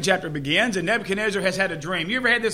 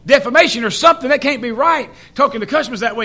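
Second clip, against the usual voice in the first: fighting mad; 4 semitones higher, 4 dB louder than usual. Retold or imitated. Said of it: "the guy gets just fighting mad".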